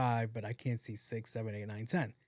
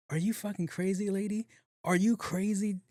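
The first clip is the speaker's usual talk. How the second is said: high, outraged shouting; outraged yell; 7 semitones higher than usual. Retold or imitated. Yelling at the old lady over the accusation, outraged. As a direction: fire back at her, pitched up and furious.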